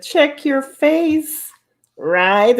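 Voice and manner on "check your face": high, slow slogan; quoting Coco's slogan. Retold or imitated. Repeating Coco's catchphrase for the chat, high and slow. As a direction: lift it up and take it slowly. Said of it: "It said".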